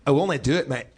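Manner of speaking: put-on Scottish accent. Shown as a demonstration. Asked to show his accent, Scottish accent. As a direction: answer as a Scot, accent demo. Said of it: "do your Scottish accent".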